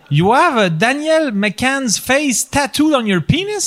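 slow, high-pitched disbelieving question; acted incredulity. Vice president questioning boss about a face tattoo, incredulous. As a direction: spell out the absurdity, high and slow.

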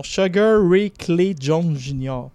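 slow English boxing nickname with a Québécois French accent. Real, not acted. Sports pundit reading English nicknames, Québécois French accent. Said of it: "mon accent".

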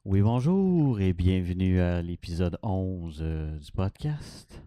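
low, slow, fading monotone intro; sleepy podcast intro. Retold or imitated. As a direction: drone it out like a boring host. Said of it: "Ben, c'est endormant".

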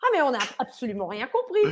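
lightly mocked French bafflement, amused; astonished French people. French guests lost by dad's slang, mock bafflement. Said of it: "les Français qui étaient avec nous".

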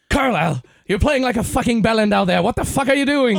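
put-on loud, high British accent yelling at a player; furious British coach restarting the rant; shouting in a British accent; British coach again. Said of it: "recommence, vas-y".

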